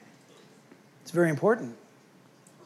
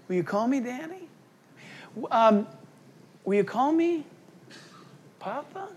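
tender invitation; 4 dB quieter than usual. Retold or imitated. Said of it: "but he says".

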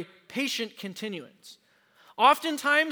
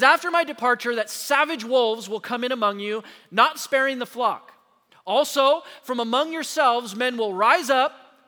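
preached warning; 2 semitones higher, 4 dB louder than usual. Acted. Preacher voicing Paul's warning.

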